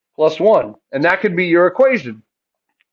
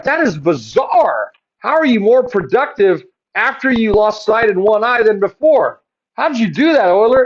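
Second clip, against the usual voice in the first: higher-pitched mock disbelief; acted amazement; 4 semitones higher than usual. Teacher voices people questioning Euler, mildly incredulous. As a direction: play baffled people demanding an explanation.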